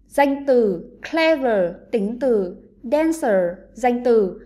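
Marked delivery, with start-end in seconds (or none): 1.1-1.7 "clever" with stress on the first syllable; strong CLE, weak ending in "clever"; teacher's demo of "clever", beat up front. Shown as a demonstration. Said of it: "trọng âm rơi vào âm tiết thứ nhất". 2.8-3.6 "dancer" with stress on the first syllable; strong DAN, weak ending in "dancer"; teacher's demo of "dancer", beat up front. Shown as a demonstration. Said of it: "trọng âm rơi vào âm tiết thứ nhất".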